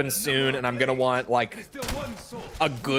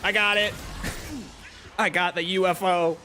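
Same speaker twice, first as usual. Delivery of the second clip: excited; 5 semitones higher than usual. Real, not acted. Catching the UFO in game.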